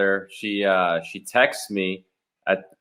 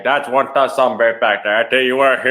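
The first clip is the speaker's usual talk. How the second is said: put-on deep South accent; 3 semitones higher, 3 dB louder than usual. Showing friends what deep South sounds like, exaggerated Southern accent. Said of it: "Deep South to me is like".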